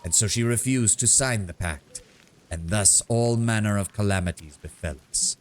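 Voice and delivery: a sonorous, epic bard telling a tale; sonorous bard storytelling. Acted. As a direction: tell the tribe's saga like a bard. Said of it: "starts talking in a more sonorous voice".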